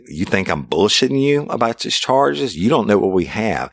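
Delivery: reliving how he barked at the suspect; retold angry yell. Berating the suspect in interrogation.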